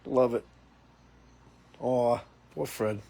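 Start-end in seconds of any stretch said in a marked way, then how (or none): 1.8-3.0 slow, stretched "Aw, poor Fred" with a long "Aw"; drawn-out mock pity. Shown as a demonstration. Host showing the right way to say it, slow mock pity. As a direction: lay the sympathy on thick and slow. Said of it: "You gotta say it like that, too".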